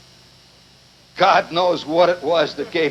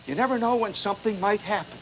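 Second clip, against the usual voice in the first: much softer, deadpan mock answer; mother's reply; 8 dB quieter than usual. Mother answering about her hair curlers, soft deadpan. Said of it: "She says".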